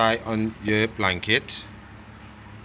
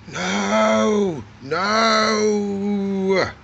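high scold; 9 semitones higher than usual. Real, not acted. Scolding lizard.

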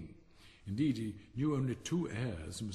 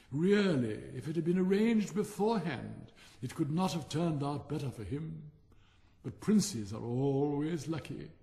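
loud, high, slow haughty rocket; conceited rocket, slow and grand; slow distinct rocket; 5 semitones higher, 4 dB louder than usual. A narrator's reading. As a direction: dictate it like memoirs. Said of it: "very slow, distinct voice".

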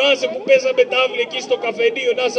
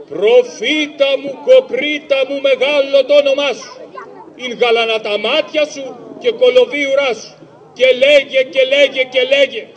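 mock ghost voice; 3 dB louder than usual.

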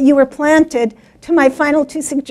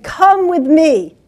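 slow, higher command as a storybook mother; firm mother cat; 4 semitones higher, 4 dB louder, slower than usual. Acted. Mother cat to her baby kittens, slow firm order. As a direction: lead them on, slowly and firmly. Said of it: "and she said".

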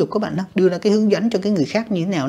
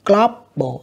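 slow Global, GLO raised over bal; first-syllable stress; 3 semitones higher than usual. Shown as a demonstration. Teacher marking word stress, Global slowly stressed on glo. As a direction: stretch Global and lift glo. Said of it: "âm một nha các bạn".

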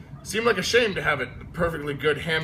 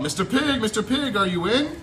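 calling out; 7 semitones higher than usual. A narrator's reading. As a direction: call sweetly at the brick house. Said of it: "I called".

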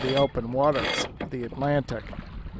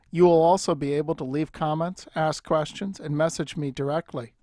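ad read. Acted. Channel outro patron appeal.

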